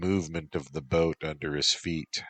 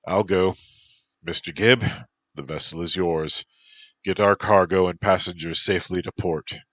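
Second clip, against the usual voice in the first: firm command; 3 semitones higher, 6 dB louder than usual. Acted. Captain gives final orders.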